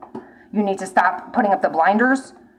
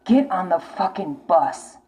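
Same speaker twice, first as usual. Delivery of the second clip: slow, deliberate repeat; slowed, heavy repeat of the order; slow insistence; slower than usual. Real, not acted. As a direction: spell it out slowly and firmly.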